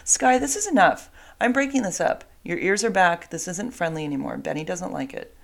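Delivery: calm the dogs down and end the fight; breaking up the dogs. Real, not acted.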